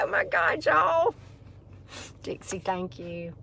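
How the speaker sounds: breathless gasp of real emotion, then a near-silent thank you; overwhelmed by donations, voice catching; choked up. Real, not acted. Host overwhelmed by viewer gifts, real tearful gasp. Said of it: "let me get my composure here".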